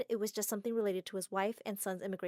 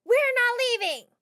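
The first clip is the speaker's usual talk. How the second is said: high, slow, loud yell; a crazy girl shouting up defiantly; 13 semitones higher, 8 dB louder, slower than usual. Acted. Fan girl yells up at the house, high slow shout. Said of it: "One of them yelled".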